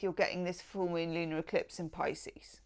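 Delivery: hushed secret whisper; conspiratorial whisper about the eclipse. Real, not acted. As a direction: lean in and whisper it.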